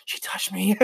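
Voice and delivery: small, starstruck squeal held in; breathless little fangirl voice; fangirl gushing. Retold or imitated. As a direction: gush like a starstruck fan. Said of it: "being such a little fangirl".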